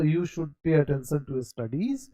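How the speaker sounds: slow, careful English example; slow model sentence. Shown as a demonstration. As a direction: read it out slowly to students. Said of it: "आप एक राय दे रहे हैं". (धीरे-धीरे साफ़ बोलना)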